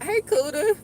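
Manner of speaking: high, bright call-out; high greeting. Real, not acted. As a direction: call out to a passerby. Greeting passerby from car.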